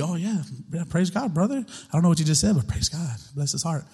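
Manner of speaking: soft, hammed-up churchy platitudes; lightly mock a believer faking holy talk; mock Christianese. Preacher mocking fake believers, soft churchy voice. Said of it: "you can speak the Christianese all you want".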